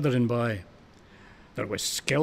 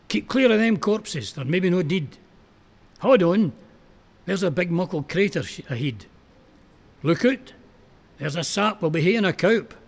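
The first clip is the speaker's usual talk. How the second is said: raised, higher urgent calls over shellfire; urgent calling out; 4 semitones higher than usual. Acted. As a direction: shout directions to a blind friend. Guiding blind comrade under fire.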